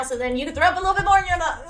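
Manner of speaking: fast, high and loud, cracking up; loud, giggly teasing; laughing taunt. Real, not acted. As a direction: rush it out gleefully into laughter. Gleefully teasing a disgusted commenter.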